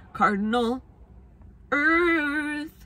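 earth said high and drawn out; high dramatic flourish on earth. Acted. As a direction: land earth with a sung flourish. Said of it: "That was actually kinda good".

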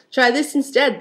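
a mild yell, pitch lifted; mock yell. A narrator's reading. Prince answering the second sister, mock yell. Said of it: "the prince yelled back".

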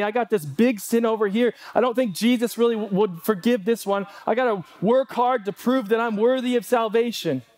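mild worried self-doubt; anxious believer. Retold or imitated. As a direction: talk yourself into needing to earn it. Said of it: "We will continually question".

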